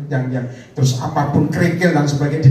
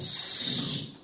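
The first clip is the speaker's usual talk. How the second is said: long hissing "sss"; imitated rain hiss. Preacher imitates the rain after commanding it, long hiss.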